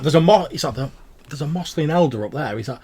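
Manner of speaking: amused merchant voice; knowing goblin warning. Acted. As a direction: tip off the traveller with a wink.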